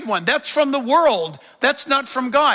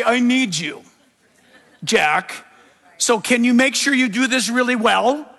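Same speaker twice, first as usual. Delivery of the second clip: mock demanding voice. Mock God demanding performance.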